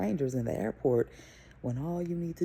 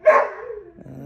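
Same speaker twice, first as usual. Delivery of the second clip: startled uh; 10 dB louder than usual. Real, not acted. Sudden alarm mid story.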